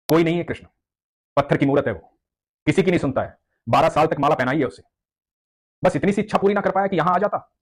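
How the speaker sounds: rising bitter complaint, pitch climbing; bitter outburst. Acted. Angry devotee complaining about his god, rising bitterness. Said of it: "बहुत नाराज थे".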